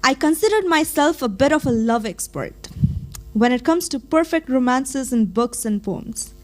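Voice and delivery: measured recital with swelling emphasis; spoken-word poem. Acted. Reciting their own poem about falling in love, spoken-word delivery. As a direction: perform it as slam poetry, leaning on key words.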